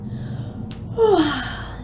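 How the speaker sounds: long sleepy yawning sigh; big yawn. Acted. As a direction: yawn like just waking. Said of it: "Roo gave a huge yawn".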